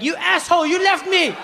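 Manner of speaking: put-on high whiny kid complaint; whiny angry kid. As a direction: whine like an upset child. Kid scolding dad.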